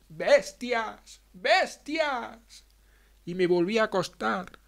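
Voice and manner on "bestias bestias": high, sharp cry of accusation; shouted. A narrator's reading. Girl screams at her family from bed, high and sharp. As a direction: hurl the word at them, higher each time. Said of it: "me levanté de la cama y grité".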